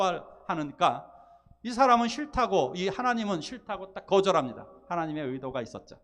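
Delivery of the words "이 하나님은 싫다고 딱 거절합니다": ordinary talk, nothing marked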